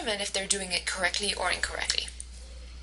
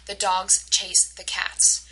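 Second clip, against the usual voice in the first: DOGS, CHASE and CATS stressed, drawn out; stressed content words; slower than usual. Shown as a demonstration. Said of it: "the words that were stressed were".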